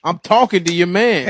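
put-on sassy girlfriend. Acted girlfriend.

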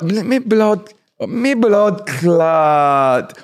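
very slow, stretched-out exclamation; shocked. Shown as a demonstration. Showing learners how to curse, long shocked drawl. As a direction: draw each word right out in shock. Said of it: "it's a term of like a shock".

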